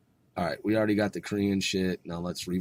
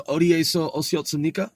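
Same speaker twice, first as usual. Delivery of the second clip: "어디에서 오셨습니까?" high, lifting at the end; questioning intonation; 6 semitones higher, 4 dB louder, much faster than usual. Shown as a demonstration. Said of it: "remember that I'm asking a question".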